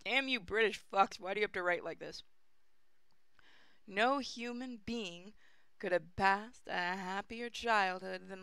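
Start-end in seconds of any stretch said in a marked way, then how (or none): 0.0-2.2 exasperated mock rant; half-joking curse at the author; mock angry. Real, not acted. Cursing the old British prose.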